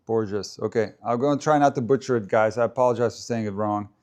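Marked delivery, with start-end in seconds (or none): 0.1-0.6 Borges with a J-like zh in the middle; pronounced with J. Shown as a demonstration. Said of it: "With J".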